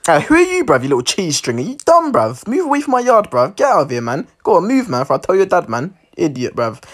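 swaggering London roadman; brash, cocky put-down of a kid; mock-tough roadman voice; roadman telling off. Roadman character scolding kid from yard.

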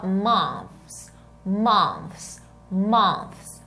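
"months" said with an F sound, like "monfs". Shown as a demonstration. Teacher showing an easier months, F replacing TH. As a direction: end "months" in -fs, tongue not between the teeth. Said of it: "vai pronunciar com um sonzinho de F".

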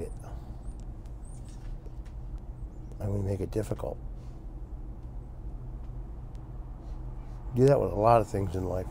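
talking around pipe stem; clenched teeth on pipe; pipe in mouth. Real, not acted. Seen 1: Pipe stem clenched in mouth throughout, smoke visible, face clear.

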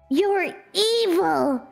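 ordinary talk, nothing marked

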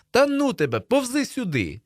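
very high hollered order; exasperated yell. A narrator's reading. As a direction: yell at a friend to give in. Boys yelling across the cornfield.

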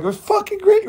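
high, rising cheer; elated. Retold or imitated. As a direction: sing out pure joy. He quotes his own joy.

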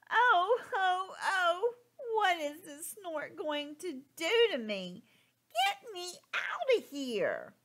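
high, worried chick crying out; high anxious little bird voice; frightened baby bird. Acted. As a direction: panic as you're carried off. Baby bird scared, being carried.

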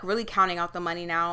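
ordinary delivery

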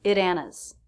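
"At Anna's" with the T tapped into "Anna's"; flap T. Shown as a demonstration. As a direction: link the T lightly into the vowel. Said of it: "so the T is a flap T".

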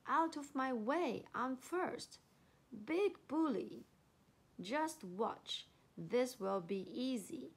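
mildly pushy, boastful elephant; lightly swagger through it. Acted. Elephant shoving to the front, boasting. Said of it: "he boasted".

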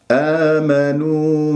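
آمنوا with lips rounded on long final u. Shown as a demonstration. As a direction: hold a rounded oo ending آمنوا. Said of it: "مع ضم الشفاه".

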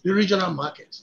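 "The regional market" said again with measured emphasis; emphatic repeat. Real, not acted. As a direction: set "The regional market" apart after a pause, stressing it. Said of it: "That's why I'm emphasizing".

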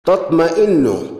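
drawn-out example word; careful, slow dictation; slow sounding out. Shown as a demonstration. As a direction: present تطمئن slowly, part by part. Presenting a new example word.

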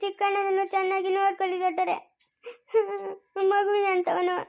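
tearful plea with sobs between phrases; acted crying. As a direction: plead through mild mock sobs. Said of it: "ಯಾಕಮ್ಮ ಇನ್ನೂ ಅಳ್ತಾ ಇದೀಯಾ?".

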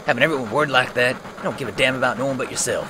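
rushed, heated scolding; quick mock fury; fast angry rant. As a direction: rattle off the accusation. Barret scolding Cloud.

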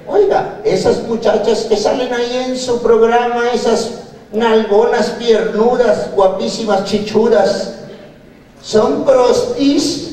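mock-innocent nosy question; cheeky question. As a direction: ask it with a dirty grin. Asking the doctor cheeky question.

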